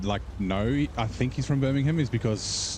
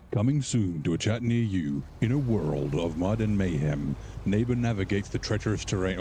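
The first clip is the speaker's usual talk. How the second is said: a mild, playful take on the epic trailer narrator; movie trailer voice. Shown as a demonstration. Streamer reads chat as a movie trailer, lightly hammed-up announcer voice. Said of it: "I'll do my, uh, my movie guy voice".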